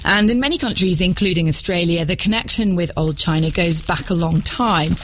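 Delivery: measured, scripted radio narration; documentary narration. Acted. Presenter links modern China to its history, documentary narration.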